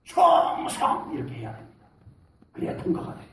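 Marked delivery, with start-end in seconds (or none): 0.0-1.1 firm, full-voiced salute; proper salute shout. Shown as a demonstration. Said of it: "다시 똑바로".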